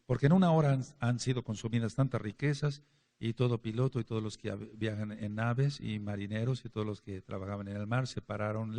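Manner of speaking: measured Bible reading, slightly solemn; scripture reading. Acted. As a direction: read the verses as scripture to the congregation. Reads Revelation 18 aloud. (lectura bíblica solemne)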